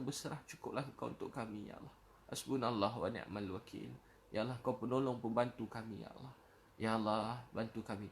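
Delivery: earnest pleading prayer voice with long "ya Allah" endings; a heartfelt du'a, pleading; fervent prayer. Real, not acted. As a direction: pray aloud for the congregation, imploring.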